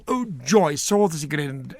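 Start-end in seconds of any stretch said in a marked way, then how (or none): 0.1-0.8 mock joyful cry. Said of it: "went on stage and went".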